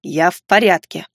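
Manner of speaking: low, mildly testy elf voice; irritated retort. Acted. Injured elf fending off help, snapping back. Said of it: "огрызнулся эльф".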